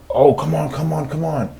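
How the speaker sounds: high-pitched pleading, imitating a trader; mock begging, pitched well up; overreacting trader. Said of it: "he would overreact".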